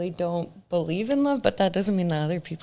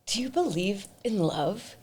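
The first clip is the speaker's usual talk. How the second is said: intense hushed question; 2 semitones higher, 8 dB quieter than usual. Retold or imitated. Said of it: "looks me dead in the eyes and goes".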